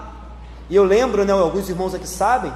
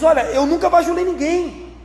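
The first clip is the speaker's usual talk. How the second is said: raised, insistent voice of the apostle Paul; Paul's earnest higher-pitched protest; voicing Paul; 8 semitones higher than usual. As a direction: speak up high as Paul defending himself. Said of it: "E aí Paulo diz".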